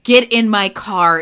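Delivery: mild mock yell; retold yell. Max yelling at Liz, mock yell. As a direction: bark it like a bossy boyfriend. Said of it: "He's yelling at Liz".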